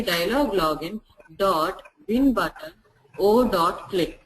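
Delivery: slow, word by word with pauses; measured step-by-step repetition, gaps between parts; slow repeat. Shown as a demonstration. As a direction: spell out each part slowly for learners. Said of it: "repeat it slowly".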